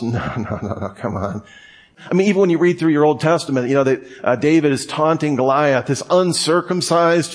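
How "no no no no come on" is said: dismissive protest. Retold or imitated. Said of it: "they'd be thinking to themselves".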